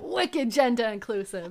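playful mock New England accent. Co-host echoing the wicked line, New England accent.

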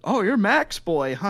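put-on high, slow greeting to a child; imitated friendly local. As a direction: play a local sizing up a little kid. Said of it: "It's like, "Are you Max Shirey?".

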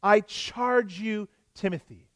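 slow, weighty apostolic command; solemn emphatic charge. Retold or imitated. Paul charging young Timothy, slow and solemn. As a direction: lay the charge on him, slowly and gravely. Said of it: "a solemn charge, an emphatic".

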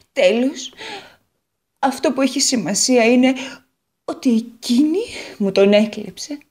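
lightly voiced guitar, jealous and hurt; the guitar blaming her rival; a hint of a wounded guitar; Guitar character voice. Guitar finishes her jealous tale.

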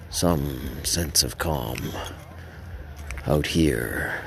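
low, soft, slow closing reverie; hushed, lingering storyteller's ending; calm narration. A narrator's reading. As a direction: let it settle into quiet calm.

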